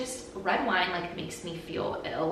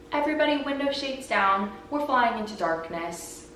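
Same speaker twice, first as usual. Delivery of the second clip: put-on a mild Irish accent, higher on Everybody; 4 semitones higher than usual. Irish flight attendant addressing the cabin, mild Irish accent. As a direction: announce it in a light Irish lilt. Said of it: "in his Irish accent".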